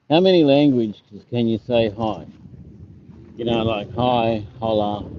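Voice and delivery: loud, emphatic read of the question; reading a comment aloud. Shown as a demonstration. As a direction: call the question out to the viewers, stressing "many". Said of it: "Hold on, I have to read this".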